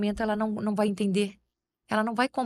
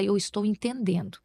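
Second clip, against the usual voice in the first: calm a tantrum with a soft, patient voice; gentle, soft to a child. Shown as a demonstration. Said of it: "você falar baixinho também com a criança".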